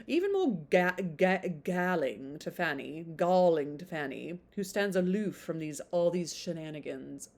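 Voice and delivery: put-on blurb read on in a light British accent. Reading the blurb to viewers, still in a British accent. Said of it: "I do do British accent".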